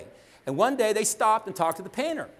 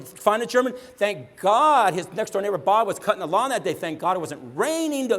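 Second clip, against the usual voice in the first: louder, higher, hyped ironic retelling; mock planned success story; 4 semitones higher, 4 dB louder than usual. Speaker mocking the myth of a master plan, hyped and ironic. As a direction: sell it as if it all went to plan. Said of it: "You think one day I got up and I said".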